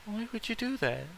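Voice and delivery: soft, high and fragile; weakly. Acted. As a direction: barely get it out, hurt. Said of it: "Taylor asks weakly".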